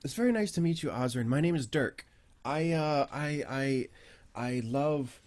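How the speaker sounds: lightly voiced, hesitant, earnest bird-man; eager Aarakocra researcher. Dirk tells a visitor of training stone giants, halting earnestness. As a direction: stammer a little while explaining your grand project.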